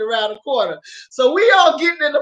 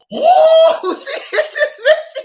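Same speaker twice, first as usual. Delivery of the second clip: high laughing exclamation, drawn out; imitating an astonished onlooker, cracking up; mock shocked yell; 5 dB louder, much slower than usual. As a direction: squeal the shock through laughter. Friend's shocked reaction, retold laughing.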